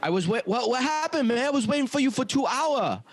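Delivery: high-pitched imitation of an Asian accent; Asian accent impression. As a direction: mimic an Asian-accented driver, pitched well up. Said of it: "Do an Asian accent".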